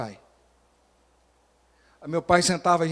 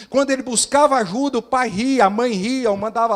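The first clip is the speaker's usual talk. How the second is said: indignação crescente; 6 semitones higher, 7 dB louder than usual. Acted. Pais rindo do filho.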